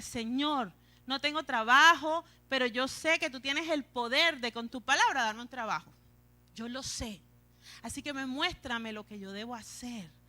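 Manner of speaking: firm, sure request to God; confident demonstration prayer; prayer with faith. Shown as a demonstration. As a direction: pray it with conviction, no whining. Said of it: "es la fe lo que mueve".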